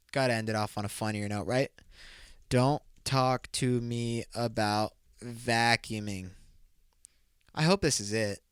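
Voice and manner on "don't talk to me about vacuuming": put-on very slow, stretched-out New Jersey accent; milk every word in a New Jersey accent; slow New Jersey movie quote to end on a joke. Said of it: "New Jersey accent".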